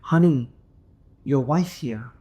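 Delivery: imitated Asian auntie with a pause after "honey"; lightly accented Asian auntie impression; mock Asian accent. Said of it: "this, this Asian auntie".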